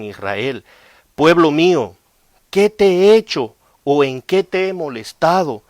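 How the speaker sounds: solemn loud scripture read; preaching scripture reading. Acted. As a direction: boom it out like a prophet. Reads scripture with force.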